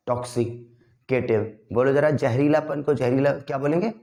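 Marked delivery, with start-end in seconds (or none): 0.1-1.6 टॉक्सिकेटिव said very slowly, syllable by syllable, with टॉक rounded like "tok"; slow careful pronunciation. Shown as a demonstration. Teacher modelling the word for students, slow and deliberate. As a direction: spell out टॉक्सिकेटिव slowly, stressing टॉक not टैक. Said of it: "टॉक्सी कर दो पहले तो आप".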